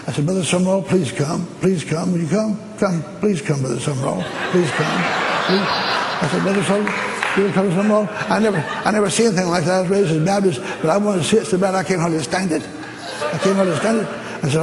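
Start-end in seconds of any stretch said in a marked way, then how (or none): 0.3-5.6 higher, eager begging; excited pleading. Retold or imitated. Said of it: "Boy, you sure are excited". 6.4-14.1 higher, eager, tumbling words; excited pleading. Retold or imitated. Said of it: "Boy, you sure are excited".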